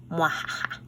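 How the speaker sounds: soft, low villain chuckle; playful little witchy cackle; mock evil laugh. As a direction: give a small pretend evil laugh.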